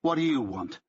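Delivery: lightly voiced English accent. A narrator's reading. Answering Barnes on the phone, English accent. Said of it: "I've said this with an English accent".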